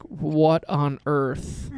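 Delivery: slow, stretched-out disbelief; slowly marveling, at normal pitch and volume; drawn-out amazement. Retold or imitated. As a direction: draw each word out in wonder. Reaction at seeing the track.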